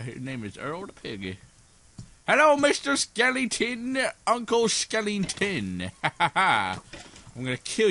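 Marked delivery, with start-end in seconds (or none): 2.3-5.9 mock sweet greeting. Greeting skeleton mob.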